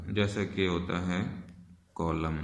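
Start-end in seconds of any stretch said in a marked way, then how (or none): 1.9-2.4 "कॉलम" ending on m, no n; silent final N. Shown as a demonstration. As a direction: say "कॉलम" for column, closing the lips on m. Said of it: "एन silent हो जाएगा".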